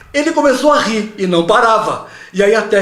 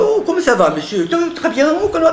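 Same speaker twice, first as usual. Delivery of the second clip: mock French accent; 10 semitones higher than usual. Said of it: "ao invés de falar".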